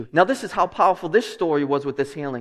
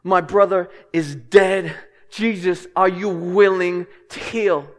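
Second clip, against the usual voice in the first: desperate plea; 4 dB louder, slower than usual. Pretend. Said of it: "people in desperation come to Jesus".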